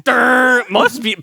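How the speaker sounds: loud, high goofy "durr"; dopey voice. Retold or imitated. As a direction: play a total dimwit. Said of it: "He literally goes".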